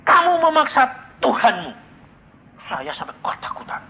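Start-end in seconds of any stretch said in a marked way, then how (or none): 0.0-1.7 God's rebuke, higher and louder like thunder; thunderous voice of God. Retold or imitated. Preacher voicing God's rebuke to him, higher and louder. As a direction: boom it out as an angry God. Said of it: "Suaranya kayak guntur".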